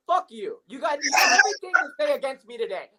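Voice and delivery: mock-angry yell at a friend; heated shouting. Real, not acted. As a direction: blow up at him.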